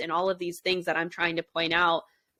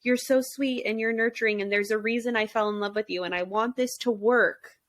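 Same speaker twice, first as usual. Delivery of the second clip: love bombing; 3 semitones higher than usual. Retold or imitated. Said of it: "sprinkling in some love bombing".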